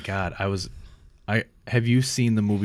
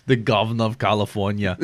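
Arnold impression. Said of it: "that didn't sound like Arnold".

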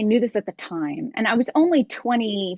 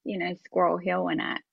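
Pittsburgh accent; 4 semitones lower, 3 dB quieter than usual. Shown as a demonstration. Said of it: "we just have to do the Pittsburgh accent".

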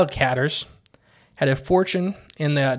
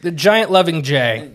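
slow, louder giant voice; 2 semitones higher, 5 dB louder than usual. Acted. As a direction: boom it out like a giant. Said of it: "That was my giant impression".

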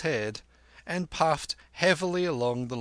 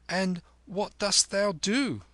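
put-on higher, eager boy's question; curious boy Kim; 9 semitones higher, 3 dB louder than usual. A narrator's reading. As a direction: ask like a curious street urchin. Kim's boyish voice.

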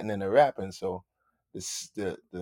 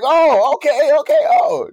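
high, loud, rising okay okay; dawning surprise; 18 dB louder, slower than usual. Retold or imitated. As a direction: let the realization build into laughter. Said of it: "I was like".

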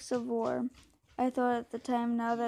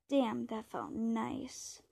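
smiling voice; 4 dB quieter, much slower than usual. Acted. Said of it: "hear the smile in O'Brien's voice".

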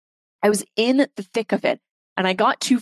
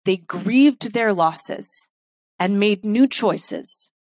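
choked up. Real, not acted. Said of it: "I'm getting choked up here".

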